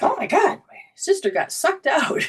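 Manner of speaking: high, alarmed mock panic; panicked siblings. Brothers shouting to each other, high mock panic. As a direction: imitate the kids freaking out. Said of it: "They're like".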